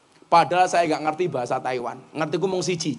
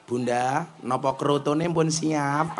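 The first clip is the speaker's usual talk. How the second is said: lower, soft, polite request; speaking gently; 3 semitones lower, 4 dB quieter, slower than usual. Retold or imitated. Husband asks his wife gently, low and soft. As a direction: ask sweetly and gently. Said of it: "kula matur sing sae".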